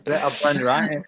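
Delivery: playful Scottish brogue; Scottish accent. Acted. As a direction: say it like a Scot. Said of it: "That was a good Scottish accent".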